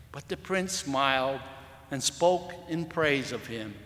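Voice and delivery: storyteller reading aloud to the church; story reading. Acted. Preacher reading a moral story to his congregation, storytelling voice. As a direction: tell the tale to the congregation, unhurried.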